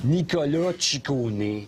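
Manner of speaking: slow, drawn-out name with a sh sound; mock Italian name. Mocking the fan's pronunciation, drawling the singer's name. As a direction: the surname said like shi-ko-neh, stretched out. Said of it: "Le poète des pauvres de semi-italien".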